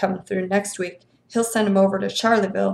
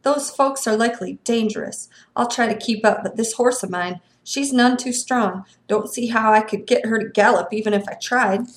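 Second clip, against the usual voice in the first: grudging. Acted. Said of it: "said the constable grudgingly".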